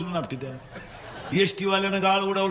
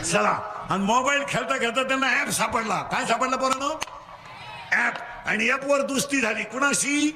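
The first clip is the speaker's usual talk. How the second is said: call-and-response preaching; 5 semitones higher than usual. Real, not acted. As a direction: leave the end rising for them to finish. Call and response story with children. (पोरांकडून वदवून घेणारा चढा सूर)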